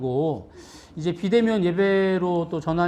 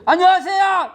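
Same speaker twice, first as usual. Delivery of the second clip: much higher, louder, bright shout of hello; imitating a loud greeting; 11 semitones higher, 8 dB louder than usual. Pastor imitating the boy's usual hello with a loud high shout. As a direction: show the boy how he usually greets everyone. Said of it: "원래 준성이".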